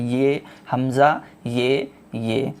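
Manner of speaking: ये हमज़ा, ये said slowly with a push of breath; forceful hamza. Shown as a demonstration. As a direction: put a little force into ये, ये. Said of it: "थोड़ा सा हमें बस ताकत लगाना है इसमें". (ताकत लगा के ये बोलना)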